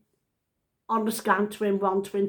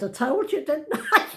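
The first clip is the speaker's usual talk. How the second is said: triumphant I-told-you-so; 6 semitones higher, 4 dB louder than usual. Retold or imitated.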